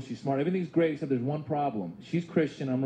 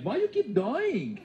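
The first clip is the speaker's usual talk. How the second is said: mom; 5 semitones higher, much slower than usual. Retold or imitated. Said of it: "She's like".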